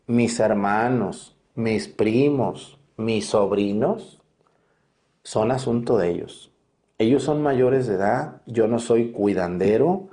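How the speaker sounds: each item drawn out slowly and firmly; deliberate, very slow and firm; slow emphatic list. Retold or imitated. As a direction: lay it down word by word, no hurry. Firm refusal told to rude man.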